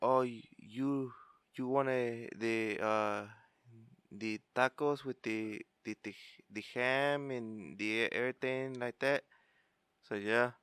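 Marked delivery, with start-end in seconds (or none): 0.0-9.2 imitating puzzled waiter. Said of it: "they're like".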